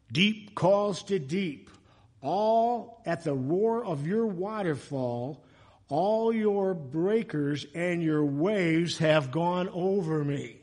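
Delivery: slow, measured psalm reading; scripture reading. Acted. Preacher reading a psalm to the congregation, slow and solemn. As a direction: read it out slowly, drawing out each phrase.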